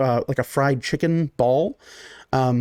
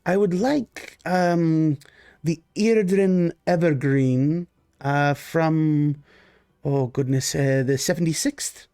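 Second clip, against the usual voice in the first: a hint of a gracious noble host, a little higher; courteous lord, slow and pleased; lightly voiced genteel Baron; 3 semitones higher than usual. GM as the Baron greeting his guests: lightly voiced genteel host.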